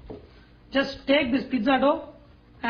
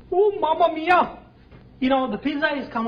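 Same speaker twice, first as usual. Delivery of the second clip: jolly italian pizza chef; 4 semitones higher, 5 dB louder than usual. Pretend. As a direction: exclaim like a delighted Italian chef. Pizza comes out of oven.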